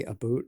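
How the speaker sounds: "about" with an oo vowel, as "aboot"; Canadian "aboot". Shown as a demonstration. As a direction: imitate the Canadian "about", rhyming with "boot". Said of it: "the fact that they say about".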